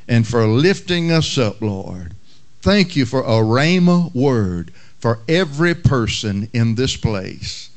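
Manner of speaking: low, earnest prayer voice. Acted. Pastor praying over the congregation, earnest prayer. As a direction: pray it out reverently.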